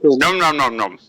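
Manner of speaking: squeezed-cheek munching voice; squished cheeks. Acted. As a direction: say it with cheeks pressed together. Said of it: "I'm just squeezing my cheeks together".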